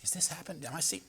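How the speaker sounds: fast breathy hushed gasp; awed whisper. Pretend. Onlooker at the cave spotting the dead man, whispering. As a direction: whisper it in disbelief.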